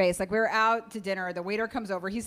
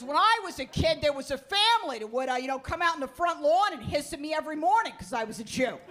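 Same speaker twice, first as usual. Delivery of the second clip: a lightly raised, mock-earnest dad voice; 5 semitones higher than usual. Telling his daughter about childhood, lightly voiced dad. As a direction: play the father topping the story, a bit higher.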